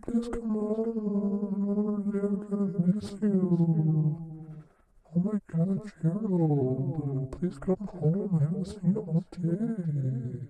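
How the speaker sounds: very high sing-song wheedling wife voice; high pleading housewife. Acted. Wife begging husband to drink dish soap, squeaky high voice. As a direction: coax your husband in a squeaky sweet voice.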